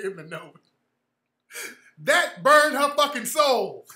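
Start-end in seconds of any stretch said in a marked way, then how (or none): 2.0-3.8 gleeful. Real, not acted. Gleeful punchline.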